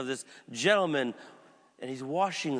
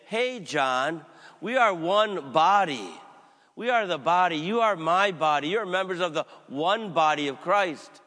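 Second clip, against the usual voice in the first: impassioned Jesus rebuke; 3 semitones higher, 4 dB louder than usual. Acted. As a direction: proclaim it like Jesus scolding John. Jesus voiced rebuking his disciple.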